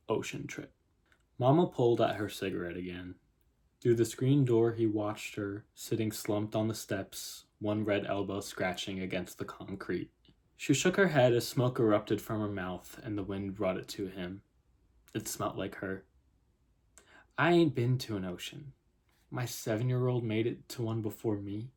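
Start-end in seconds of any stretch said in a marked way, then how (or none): 1.4-16.1 measured literary reading; story narration. A narrator's reading. Writer reads her opening scene to viewers, story narration. 17.4-21.7 lightly voiced Southern mother; Southern accent. Mother talking to a police officer, light Southern accent. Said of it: "if I have a terrible Southern accent".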